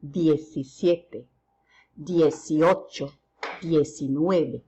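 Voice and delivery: diecisiete said slowly, each syllable clear; slow, careful Spanish number drill; slow model pronunciation. Shown as a demonstration. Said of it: "we pronounce it as diecisiete".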